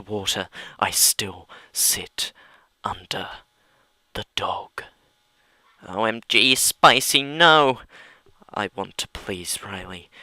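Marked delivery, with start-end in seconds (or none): 5.9-7.8 loud, rising cry; horrified shout. Real, not acted. Listener reacting to the story, loud shout. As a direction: cry out in alarm.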